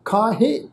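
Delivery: ਖਾਹੇ with a light nasal final e; soft nasal ending. Shown as a demonstration. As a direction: end ਖਾਹੇ gently through the nose. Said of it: "ਇਸ ਢੰਗ ਨਾਲ".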